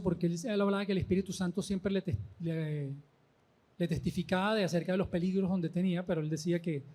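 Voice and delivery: softly spoken, losing volume; quiet, under-projected voice; hard to make out. Real, not acted. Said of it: "te oigo hablar nada más".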